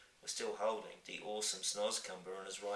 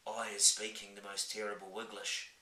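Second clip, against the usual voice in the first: giant voice. Acted. Giant sad.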